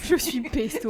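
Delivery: mock Italian accent, slowed; hammed-up Italian accent. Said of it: "Je parle italien".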